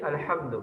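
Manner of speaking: الحمد with the h pushed from the throat; correct al-hamd. Shown as a demonstration. Teacher showing students the correct throat h. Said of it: "جو حلق سے ادا ہونے والا حرف ہے".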